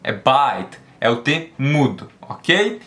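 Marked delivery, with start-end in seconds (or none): 0.1-0.8 "bite" ends clean on the t, no vowel after; no extra "i" after "bite"; silent final e. Shown as a demonstration. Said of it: "Você não pronuncia bite ou bite".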